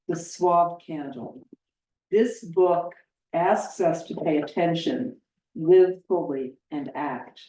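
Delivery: measured, emphatic read-aloud with pauses between phrases; formal review reading. Acted.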